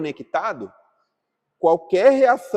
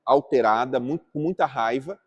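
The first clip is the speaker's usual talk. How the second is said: calm empathetic reply. Shown as a demonstration. Teacher models calming an upset woman, calm and understanding. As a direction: soothe an upset person before explaining. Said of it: "primeiro eu falo".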